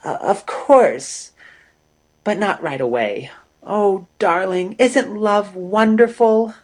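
hesitant, then gushing excitement. A narrator's reading. Amory gushes to Peter about love, rising high.

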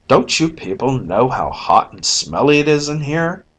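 abrupt. Acted. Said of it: "with his usual unceremonious abruptness".

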